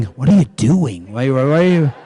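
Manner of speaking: laughing, baffled protest; husband laughing at the tearful wives; laughing disbelief. Retold or imitated. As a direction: chuckle through the question. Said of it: "I'm going".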